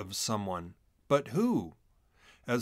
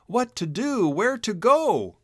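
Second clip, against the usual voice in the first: higher, louder frantic questions; panicked thought; 8 semitones higher, 6 dB louder than usual. A narrator's reading. Chisel cornered by minks, panicked and high. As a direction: panic as the cliff nears. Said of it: "he thought".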